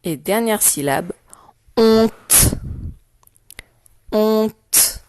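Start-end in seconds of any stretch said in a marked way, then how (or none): 1.8-2.6 HONTE projected, crisp final t; dictation. Shown as a demonstration. Teacher dictating the last syllable to pupils, dictation voice. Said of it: "Je vais te dicter les syllabes". 4.1-5.0 HONTE projected, crisp final t; dictation. Shown as a demonstration. Teacher dictating the last syllable to pupils, dictation voice. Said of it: "les syllabes deux fois".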